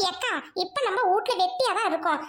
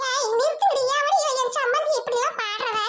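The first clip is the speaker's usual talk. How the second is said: higher, sharp outraged telling-off; angry scolding; 4 semitones higher than usual. Acted. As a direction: shout them down for insulting the dead. Angry mother-in-law scolding mourners. (கோபமான கண்டிப்பு)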